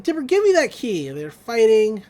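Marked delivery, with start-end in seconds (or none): 0.0-1.1 higher and louder, bossy demand; snatch for it with your voice; demanding shout. Retold or imitated. Mabel demands the key from Dipper, shouting. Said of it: "Mabel's like".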